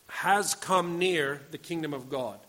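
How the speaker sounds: "Has come near" slow and weighted up front; stress on HAS COME NEAR. Shown as a demonstration. Preacher shows Greek word order, stressing "Has come near". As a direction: lean on "Has come near", then finish the phrase. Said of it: "And the emphasis".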